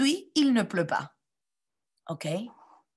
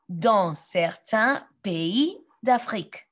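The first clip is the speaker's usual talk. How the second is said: slow reading; slower than usual. Shown as a demonstration. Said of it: "lisez avec moi".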